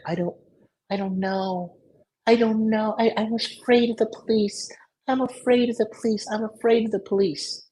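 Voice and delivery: high, frantic mock panic; panicked girl voice. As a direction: squeal it like a scared girlfriend. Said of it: "She's freaking out".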